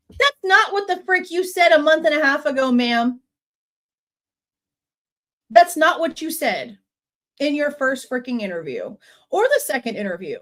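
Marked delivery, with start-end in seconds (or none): 0.1-8.1 indignant. Real, not acted. Angry rebuttal to the witness.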